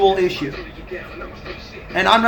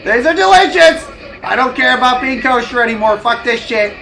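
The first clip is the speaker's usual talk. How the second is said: a hint of greedy delight, louder; lightly voiced hot dog convert; 2 semitones higher, 3 dB louder than usual. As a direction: gush about the hot dogs mildly. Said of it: "They're just like".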